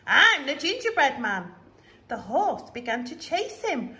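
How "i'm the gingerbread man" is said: high, loud, teasing taunt; squeaky cheeky runaway; gingerbread man voice. Acted. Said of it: "He called to the horse".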